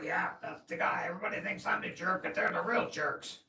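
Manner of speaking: rough, loud and fast smoker voice; whiskey voice. Retold or imitated. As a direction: rasp it out quickly, like a heavy smoker. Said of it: "he kinda talks like this".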